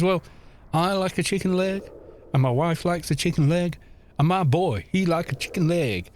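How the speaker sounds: folksy put-on American farmer; hammy American country accent, unhurried list; awful American accent. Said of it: "I'm doing, like, a awful American accent".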